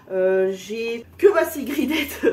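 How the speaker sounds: slow words through a laugh. Real, not acted. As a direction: laugh as you say it. Laughs mid-sentence.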